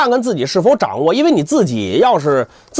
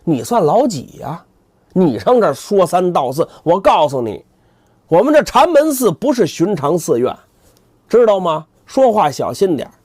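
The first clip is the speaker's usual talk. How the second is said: arrogant boast; 4 semitones higher than usual. Acted. 扫地僧发威.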